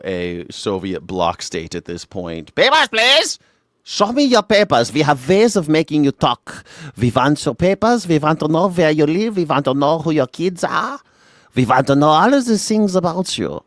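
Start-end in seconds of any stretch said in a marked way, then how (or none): 2.5-13.6 loud, high menacing interrogator; cool foreign spy menace. Pretend. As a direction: menace like a Soviet agent. Mock Soviet interrogator.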